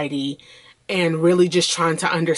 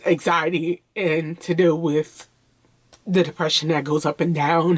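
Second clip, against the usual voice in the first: getting emotional. Real, not acted. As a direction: push through the words as emotion wells up. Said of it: "I'm sorry to get emotional".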